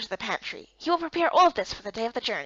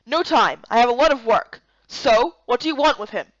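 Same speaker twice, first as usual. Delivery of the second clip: yelling from next room; 4 dB louder than usual. Acted. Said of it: "He continued to yell".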